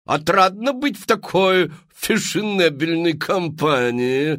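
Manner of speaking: high, loud, theatrical madame pitching to the crowd; showy saleswoman. Acted. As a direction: sell it like a grand Parisian hostess. Мадам Фру-Фру. (высокий громкий голос мадам-зазывалы)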